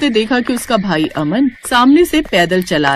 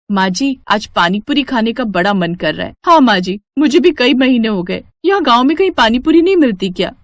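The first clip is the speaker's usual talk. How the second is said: lightly voiced daughters-in-law. Daughters-in-law asking mother-in-law for pani puri, lightly eager. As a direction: plead lightly for a treat.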